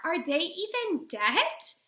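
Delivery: high, drawn-out upset question; slow, pleading demand for an answer; voice rising. Acted. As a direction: push the pitch up in disbelief. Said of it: "My voice rises".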